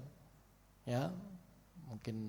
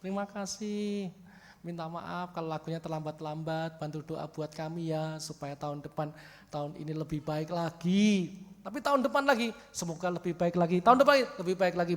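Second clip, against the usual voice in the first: imitating a shy testifier; 3 semitones higher than usual. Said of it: "Kata-katane".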